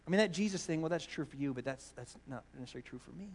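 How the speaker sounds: a hint of a dismissive skeptic; mock relativist. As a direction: shrug it off lightly. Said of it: "and they go".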